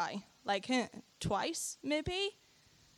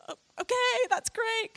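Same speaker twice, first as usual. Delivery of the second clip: forced bright okay; 13 semitones higher, 4 dB louder than usual. Retold or imitated. Feigned bewildered approval.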